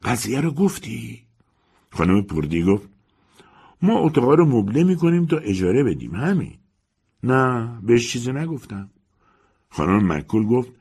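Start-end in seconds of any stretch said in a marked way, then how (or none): 0.0-1.2 husky, secretive question; hoarse and mysterious. Acted. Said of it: "با صدایی گرفته و مرموز". 3.8-8.9 higher, gossiping landlady over tea; chatty old landlady, a bit pleased. Acted. Landlady answers her friend.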